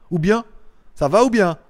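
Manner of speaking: light Swiss French lilt on ou bien; tossing off a Swiss ou bien, lightly accented; mock Swiss accent. To a viewer, trying a Swiss ou bien, mild mock accent. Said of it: "bel accent".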